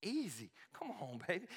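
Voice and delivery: cocky, offhand brag. Acted. Elijah showing off before soaking the sacrifice, cocky. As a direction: toss it off like it's too easy. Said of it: "You know how the cocky guy".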